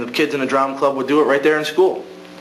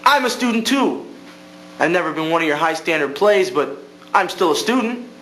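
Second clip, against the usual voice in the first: a kid's mock yell at a closed door; retold yell; 3 semitones higher than usual. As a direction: shout back at the teacher in defiance. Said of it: "I yelled at the door".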